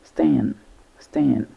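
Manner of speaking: "stan" repeated alone with the vowel of slap; "stan", clearly set apart for learners; isolated syllable demo. Shown as a demonstration. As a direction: sound out "Stan" as a separate syllable. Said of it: "a like in slap".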